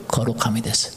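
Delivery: hushed whispered answer. Acted. Pastor whispering the answer to the congregation, hushed. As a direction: whisper it like a secret.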